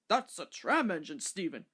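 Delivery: a lightly voiced kindly old man; stout gentleman. A narrator's reading. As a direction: explain it gently to the boy. Stout gentleman answers boy.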